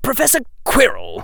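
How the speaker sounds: high-pitched formal address; most formal voice. Acted. Draco addressing Professor Quirrell, most formal. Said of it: "in his most formal voice".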